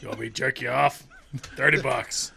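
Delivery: raspy, breathy tough-woman come-on; a gruff, lightly voiced streetwalker; Aileen Wuornos. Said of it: "I like to imagine that's how Eileen Wuornos sounds".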